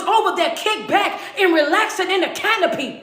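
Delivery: hammed-up report, pushing the words out; excited Ahab. Ahab boasting to Jezebel about the altar, excited.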